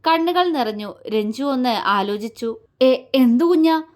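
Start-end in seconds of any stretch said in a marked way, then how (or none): 2.8-3.8 stammered, emotional question; helpless. A narrator's reading. Father asking about his unknown child, helpless. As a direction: ask with a father's helpless longing. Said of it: "ഒരച്ഛന്റെ നിസ്സഹായത നിറഞ്ഞ ചോദ്യം".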